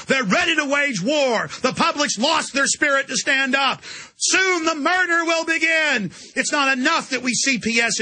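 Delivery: hammed-up evil globalists announcing murder, shouting; gloating villain. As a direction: shout it like a cartoon tyrant relishing the coming slaughter.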